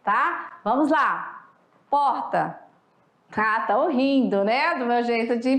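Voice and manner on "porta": teacher demos porta; porta said with a rolled R. Shown as a demonstration. Teacher asks class to say porta, demo. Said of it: "falem aí a palavra porta".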